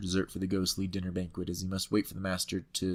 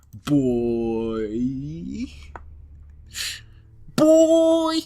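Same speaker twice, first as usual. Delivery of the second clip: put-on boy jumps much higher and much louder; mock shout; 5 semitones higher, 10 dB louder than usual. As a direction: yell boy in a hammed-up villain voice. Mocking the mortician's boy.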